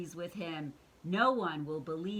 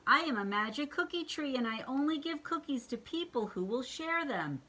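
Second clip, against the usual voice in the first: tree voice; 7 semitones higher than usual. Acted. Tree speaks.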